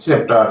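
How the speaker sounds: চ্যাপ্টার said with a clear ch sound at the start; ch sound demo. Shown as a demonstration. Teacher modelling চ্যাপ্টার for pupils, ch sound. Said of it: "চ এর মতো আসবে".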